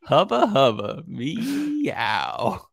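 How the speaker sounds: slow, playful flirty catcall; joking hubba hubba. Pretend. Joking flirt line to Heather, a slow playful catcall. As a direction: tease it like a lighthearted wolf whistle. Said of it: "in a very joking way".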